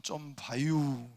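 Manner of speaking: light Chungcheong accent, easy tone; mild Chungcheong 봐유 ending; lightly voiced Chungcheong dialect. Shown as a demonstration. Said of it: "충청도는".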